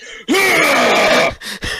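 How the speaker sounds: half-orc roar. Acted. Half-orc player showing off to the table, roaring. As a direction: let out a drawn-out orc roar.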